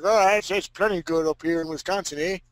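lightly mocked Wisconsin accent. Teasing Steve about how they talk up in Wisconsin, mock Wisconsin accent. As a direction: tease with a put-on Wisconsin accent. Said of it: "That's why you guys talk like that".

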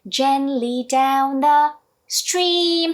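slow, linked "gently down the stream"; linked phrase. Shown as a demonstration. Teacher modelling the whole line. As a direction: join the words smoothly. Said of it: "그러면".

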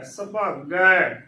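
ਸੁਭਾਗੈ slowly, ending on open "gai"; spelled-out pronunciation. Shown as a demonstration. Teacher demonstrating the next word, ਸੁਭਾਗੈ slowly with open "gai" ending. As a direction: stretch the final vowel of ਸੁਭਾਗੈ. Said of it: "ਗੱਗੇ ਨੂੰ ਦਲਾਵਾਂ ਗੈ".

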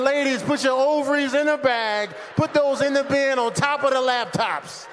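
forceful stream of barked orders; yelling. Acted. TSA agent at passengers unpacking into bins, yelling. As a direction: holler instructions down the security line. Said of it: "You hear 'em yelling".

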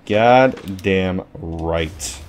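goddamn stretched very slow and low; slow, soft, smug drawl on goddamn right; drawn out. Real, not acted. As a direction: savor each syllable of goddamn, slowly. Repeats the phrase drawn out.

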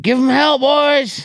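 high, loud rallying cry; cheering quote. Retold or imitated. Podcaster quoting the sledgehammer guy, high loud cheer. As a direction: cheer the boys on at the top of the voice. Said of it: "He's like".

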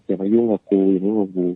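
imitating raving. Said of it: "จะเพ้อบอก".

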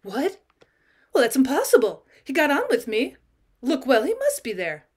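frightened insistence; startled and pleading; alarmed. Acted. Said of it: "She started, terrified".

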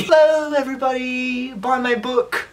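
high, sing-song mock greeting; Zoella. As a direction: trill hello, then soften into the plug. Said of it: "that was my Zoella".

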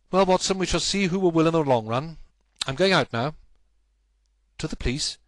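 a detective vowing to win; determined Holmes. Acted. Holmes resolves to act.

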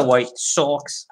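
put-on light Boston accent on "Sox"; a hint of Boston in the vowel. Card breaker naming a Chicago team, slight Boston accent. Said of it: "I did that in a Boston accent".

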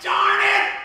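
loud, high mock cry of frustration; exasperated outburst. Comic answering the kid who pitched him, exasperated. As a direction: blurt it out in exasperation. Frustrated comeback in retold exchange.

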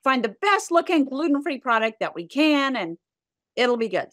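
retold mom keeping up a brave front; putting on brave face. Mom reassures her sick daughter about food, brave upbeat front. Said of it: "put on your best face".

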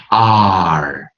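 R as a front "ah" gliding into "er", held long. Shown as a demonstration. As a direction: draw out each R with an American r-coloured ending. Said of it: "如果你能念出前R跟后R".

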